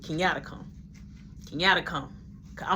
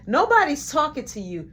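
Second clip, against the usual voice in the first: mild retold yell, pitched up; higher, irritated shut-down; arguing yell; 7 semitones higher, 4 dB louder than usual. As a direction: snap back in an argument. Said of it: "She le-, yelling at Roshan".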